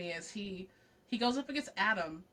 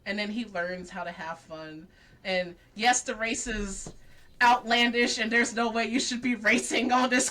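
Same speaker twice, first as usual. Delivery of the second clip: ordinary talk, nothing marked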